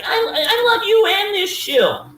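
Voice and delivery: high, slow, laughing mockery of a fawning caller; mocking caller. Host mocking callers who praise him and the shill, high and laughing. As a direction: sneer it out like a gushing fan, laughing through it. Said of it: "they're like".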